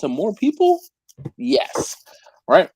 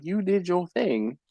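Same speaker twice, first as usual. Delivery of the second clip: reading the message aloud; 7 dB quieter, slower than usual. Retold or imitated. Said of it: "she was like".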